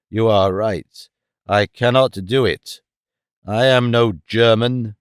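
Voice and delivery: lightly voiced grave Tarzan; solemn Tarzan. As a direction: speak as a proud ape-man. Tarzan relents.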